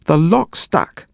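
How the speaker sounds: put-on high, slow little boy yell; child's yell. A narrator's reading. Leo yelling to his brother through the locked door, high slow yell. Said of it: "yelled Leo".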